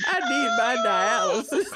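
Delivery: put-on high, loud quavering old lady; grandma voice. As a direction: cry it out like a frail grandma. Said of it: "why you put the grandma voice on?".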